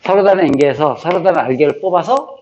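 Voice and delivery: chant-like repetition of a memorized formula; rote recitation. Shown as a demonstration. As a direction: drill the phrase aloud like vocabulary. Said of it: "공식 외울 때도 항상 얘하고 얘를 먼저". (공식을 외우듯 반복해서 읊기)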